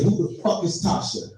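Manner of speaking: hushed, threatening question; low menacing whisper. Retold or imitated. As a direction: hiss it quietly like a jealous wife. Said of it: "This bitch looks at me and said".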